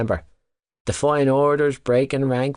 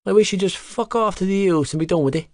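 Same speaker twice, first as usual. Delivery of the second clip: roared; 8 semitones higher, faster than usual. A narrator's reading. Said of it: "he roared".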